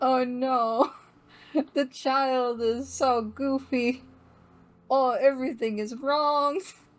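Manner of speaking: laughing hard. Reacting to a goofy-looking Pokémon on screen, laughing hard. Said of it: "(Laughing harder)".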